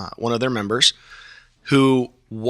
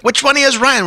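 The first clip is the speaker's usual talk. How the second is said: imitating Harry; 14 semitones higher, 4 dB louder, faster than usual. Harry's line retold in story.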